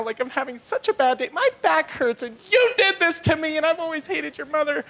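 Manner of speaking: hammed-up cranky wife; pregnant wife voice. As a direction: play the grumpy pregnant wife complaining. Comic acts out pregnant wife's rant.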